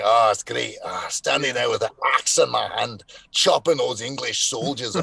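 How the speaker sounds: relishing, put-on Scottish accent. Actors fresh from Braveheart reminiscing, mock Scottish accent. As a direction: play a boastful Scottish warrior, Scottish accent. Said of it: "they get very, very Scottish".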